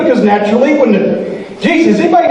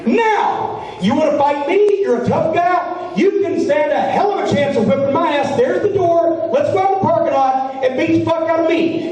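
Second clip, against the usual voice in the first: retold tirade; 3 semitones higher than usual. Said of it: "So I said".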